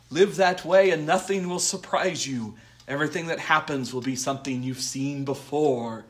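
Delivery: hammed-up speech in a shaky put-on accent; Littlefinger. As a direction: recite like a scheming mentor, badly imitated. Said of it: "I don't know what accent I'm doing for Littlefinger".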